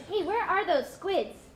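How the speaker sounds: ordinary talk, nothing marked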